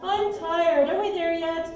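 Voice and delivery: put-on whiny kid complaining. Shown as a demonstration. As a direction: whine it like a tired child. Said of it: "in whiny voices".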